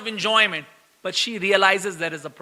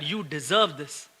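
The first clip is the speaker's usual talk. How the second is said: Krishna's verdict; 6 semitones lower, 8 dB quieter, slower than usual. Pretend. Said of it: "Krishna came and told you".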